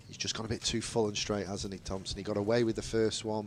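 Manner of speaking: lightly voiced cricket commentary, steady and measured; live play-by-play. Commentator calling the ball to radio listeners, measured play-by-play.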